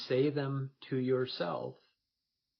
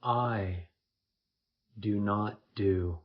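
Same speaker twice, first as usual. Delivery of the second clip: first-person meditation, slightly louder, in spaced phrases; guided meditation; 6 dB louder than usual. Acted. Leading listeners into effortless stillness, guided meditation voice. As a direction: say each phrase firmly, leaving long pauses.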